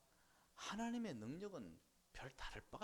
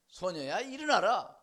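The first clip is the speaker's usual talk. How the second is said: slow, loud, higher 일어나라 falling; slow proclamation; 4 semitones higher, 13 dB louder, slower than usual. Acted. Preacher repeating Jesus' words to the congregation, slow loud. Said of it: "번역하니 뭐라고 그랬다고".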